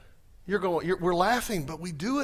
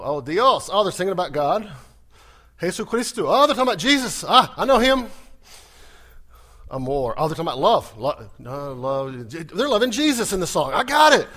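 growing louder, delighted as each word clicks; a visitor catching familiar words, thrilled; excited recognition; 7 dB louder than usual. Retold or imitated. Acts out grasping Spanish worship.

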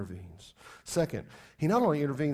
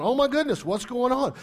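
panicked soldiers; 8 semitones higher, 6 dB louder than usual. Retold or imitated. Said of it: "They were going".

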